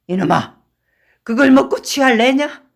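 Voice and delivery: put-on loud, high drunken bellow; drunken shout. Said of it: "취한 이는 부르짖었다".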